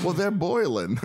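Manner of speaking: high mock Cajun; Cajun accent. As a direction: play a Cajun talking about dinner. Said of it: "do the fucking Cajun accent".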